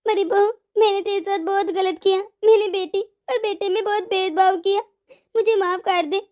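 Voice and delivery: acted weeping remorse; crying. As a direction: beg forgiveness through tears. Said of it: "मैं अपने कर्मा पर रो रही हूँ".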